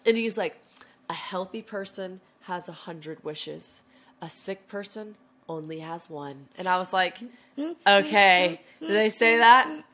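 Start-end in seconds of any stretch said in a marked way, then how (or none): 1.1-6.5 slow, soft, sage-like pronouncement; hushed, slow and weighty quote; mock solemn proverb. Boyfriend delivers a solemn saying. 7.9-9.8 loud, higher, slow doubting question; incredulous, drawn-out challenge; mock sceptical. Sceptical reply to the saying.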